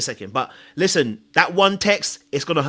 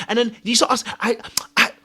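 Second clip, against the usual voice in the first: normal talking voice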